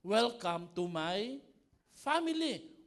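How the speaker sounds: drawn-out, loud mock welcome. Pastor mock-welcoming the congregation to a noisy family, drawn out.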